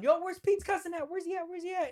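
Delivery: high-pitched mock hollering; imitated yelling. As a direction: holler it urgently, imitating a searching crowd. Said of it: "I hear a bunch of yelling".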